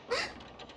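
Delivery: high, sharp startled gasp. Real, not acted. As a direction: gasp as if jolted. Startled by the book.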